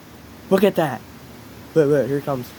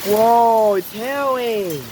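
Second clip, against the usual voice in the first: in a hailstorm; 8 semitones higher than usual. Real, not acted. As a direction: shout in amazement at the hail. Still hailing, exclaiming loudly.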